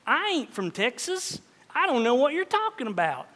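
hint of a Texan accent; Southern accent. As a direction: deny it in a mild Southern accent. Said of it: "someone from the South saying".

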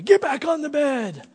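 high, loud mock yell at a child; acted-out angry dad's yell; retold parental yell. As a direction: bellow it like a fed-up parent, imitated. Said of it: "And I yelled at you".

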